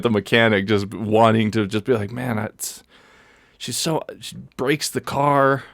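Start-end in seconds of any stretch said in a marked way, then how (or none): 2.1-5.6 throaty raspy man. Retold or imitated. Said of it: "more throaty, kinda like raspy voice".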